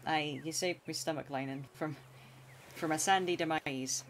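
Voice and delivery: a light put-on pirate accent, close to his own voice. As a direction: lightly play a hammed-up pirate captain with a pirate accent. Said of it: "I can't do that accent".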